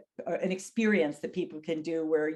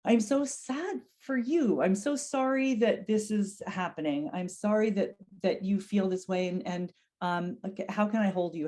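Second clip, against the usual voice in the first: comforting. Shown as a demonstration. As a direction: reassure him tenderly. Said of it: "offering comfort and reassurance".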